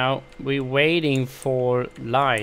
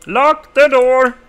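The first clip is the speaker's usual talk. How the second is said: relieved laughter; 12 semitones higher, 10 dB louder than usual. Acted. High far voice inside the fort.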